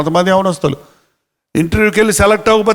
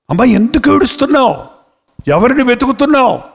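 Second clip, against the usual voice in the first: Jesus asking gently; 5 semitones higher than usual. Acted. Jesus speaking to Mary.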